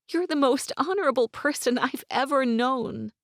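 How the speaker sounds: put-on high, urgent young woman, near tears; young woman's voice. A narrator's reading. Gwen voiced.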